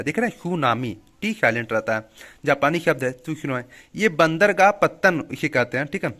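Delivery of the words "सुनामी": सुनामी begun on an S sound, no T; सुनामी pronounced "soo-naa-mee", T dropped; silent T. Shown as a demonstration. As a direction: say सुनामी with the initial T left silent. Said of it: "जिसमें टी silent रहता है".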